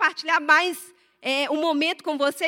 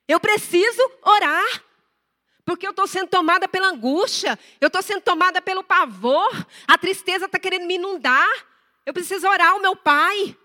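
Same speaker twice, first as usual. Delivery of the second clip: urgent retold plea; 4 semitones higher, 4 dB louder than usual. Retold urgent self-talk.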